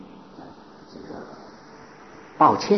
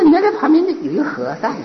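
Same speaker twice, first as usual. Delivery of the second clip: high, laughing mock of a jeering youth; 12 semitones higher than usual. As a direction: sneer it out like a heckler on a train. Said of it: "那几个人在那里说相声一样". (笑着模仿年轻人取笑和尚)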